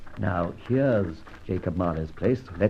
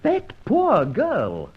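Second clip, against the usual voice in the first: whisper; 11 semitones higher, 3 dB louder, much slower than usual. Acted.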